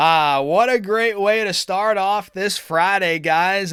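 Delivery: sarcastic, ironic, cheery, upbeat delivery. Opening a friday stock update with everything down: sarcastic. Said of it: "And I'm being sarcastic".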